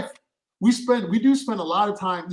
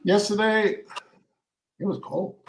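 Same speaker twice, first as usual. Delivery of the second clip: lingering on yesterday; 2 semitones higher than usual. Shown as a demonstration. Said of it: "I let you imagine yesterday for a, a, like, a split second longer".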